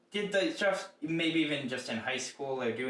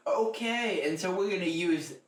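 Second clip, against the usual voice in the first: lightly put-on stage announcement, pitched up at the start; mock show host; 3 semitones higher than usual. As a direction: launch the show as if all is well. Imagines introducing a made-up suggestion onstage.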